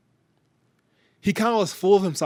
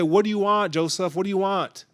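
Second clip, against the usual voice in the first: annoyed; 3 semitones higher than usual. Retold or imitated. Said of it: "Already annoyed".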